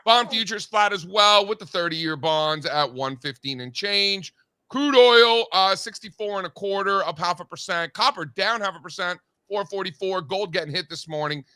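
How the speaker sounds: brisk announcer market rundown; market report read. Acted. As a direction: read the numbers like a morning market anchor.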